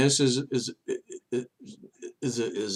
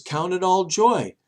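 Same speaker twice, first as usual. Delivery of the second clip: proclaiming; 5 semitones higher, 4 dB louder than usual. Retold or imitated. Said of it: "God says".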